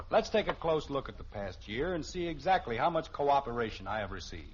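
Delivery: rehearsing a pompous club speech; speech rehearsal. Acted. Father rehearsing his president's speech, pompous. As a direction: practice the grand speech aloud. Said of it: "As president of the local service club".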